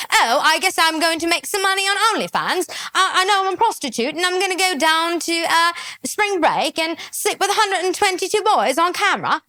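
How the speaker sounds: lightly voiced send-up of the woman; half-hearted mimicry of a breezy confession; mocking her. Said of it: "you don't just wake up one morning and decide".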